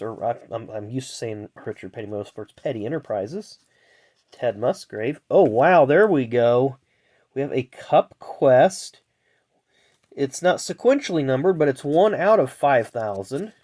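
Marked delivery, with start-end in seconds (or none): 5.3-12.4 excited. Real, not acted. Pulls a rare insert card.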